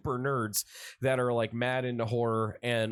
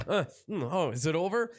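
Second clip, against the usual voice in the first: Mordecai waking up; 4 semitones higher than usual. Retold or imitated. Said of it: "wakes up".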